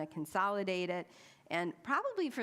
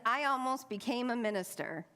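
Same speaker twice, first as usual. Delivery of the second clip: eager chatty man; 5 semitones higher than usual. Retold or imitated. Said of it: "Bruce says".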